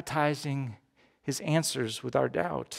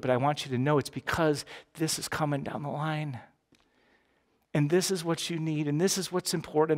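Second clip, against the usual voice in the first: gently voicing God. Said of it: "when he says no, he says".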